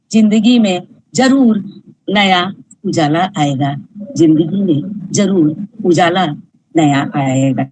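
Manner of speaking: measured, rhythmic poetry recitation with repeated lines; poem recital. Acted. Reciting her poem to an audience, measured and rhythmic. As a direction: recite each line like verses at a reading.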